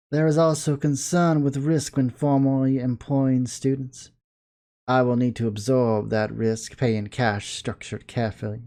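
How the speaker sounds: measured formal authority figure, slowing at first; formal supervisor. Acted. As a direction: explain the terms like a careful supervisor, fading at the end.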